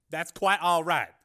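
smooth and unbothered, taking his time; calm politician. A narrator's reading. Carmen dismissing his secretary, calm and slow. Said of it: "said Carmen calmly".

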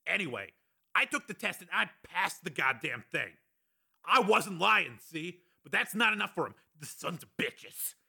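high, strained rant at reduced volume. A narrator's reading. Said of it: "continued at a slightly lower volume".

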